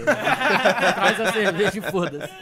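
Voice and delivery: laughing loud and slow. Real, not acted. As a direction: burst out laughing through it. Joking about guests' beer.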